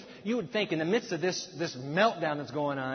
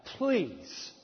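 Moses crying out; much slower than usual. Retold or imitated. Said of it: "cries out here".

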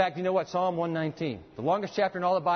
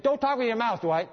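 imitating an irritated father, higher pitched; retold parental telling-off, pitched up; ticked-off dad; 5 semitones higher than usual. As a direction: scold like a fed-up dad, lightly acted. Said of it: "my dad was so ticked at me".

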